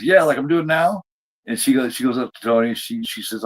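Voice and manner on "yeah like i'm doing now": retold sarcastic jab. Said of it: "after he says".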